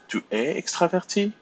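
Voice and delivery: tu es extraverti said high, rising on extraverti; question intonation. Shown as a demonstration. Teacher reminds students of question by intonation, rising high. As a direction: let extraverti climb like a question. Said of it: "you can use intonation".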